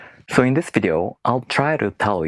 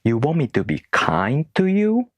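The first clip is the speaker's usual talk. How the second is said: mock puzzled question, rising high at the end; mildly incredulous, pitch climbing on the question; imagined puzzled reaction; 5 semitones higher than usual. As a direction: act a confused listener double-checking. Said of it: "some people might even think".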